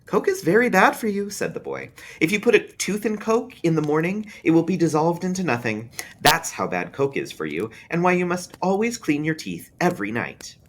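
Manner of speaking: put-on a kid repeating a grown-up warning; young boy, preachy and sure; lecturing small boy. A narrator's reading. Boy lectures about Coke.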